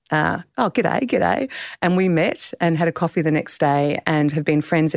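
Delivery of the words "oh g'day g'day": put-on Australian accent. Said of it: "two Australian accents".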